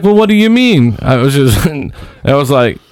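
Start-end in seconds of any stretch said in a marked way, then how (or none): 0.0-1.0 much higher, puzzled; lightly voiced puzzled vendor. Vendor confused by robbery worry, higher voice. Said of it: "She's like".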